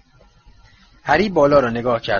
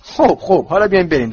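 impatient; 5 semitones higher, 5 dB louder than usual. Acted. Ron cuts the argument.

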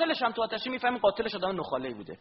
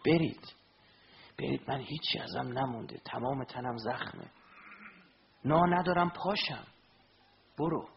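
dying Imam's plea; 2 semitones lower, 3 dB quieter than usual. Acted. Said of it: "گفت".

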